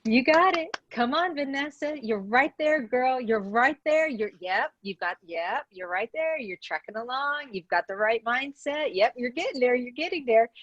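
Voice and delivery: high, eager coach urging him on; coaxing cheer. Retold or imitated. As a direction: cheer him toward the answer. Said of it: "And that's Jesus with me".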